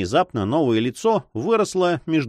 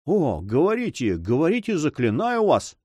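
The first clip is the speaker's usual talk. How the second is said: higher, urgent lover's entreaty; pleading; 6 semitones higher than usual. Acted. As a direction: beg her earnestly to speak. Lover begs her to speak.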